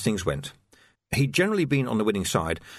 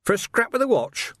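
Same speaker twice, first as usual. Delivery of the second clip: incredulous; 12 semitones higher than usual. A narrator's reading. Vimes in disbelief.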